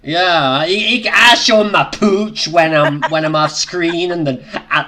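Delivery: lightly put-on accent, perhaps Welsh; mock someone in a vague Welsh-like accent; a hint of a Welsh-like accent; attempted accent, possibly Welsh. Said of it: "What accent do you think he just did".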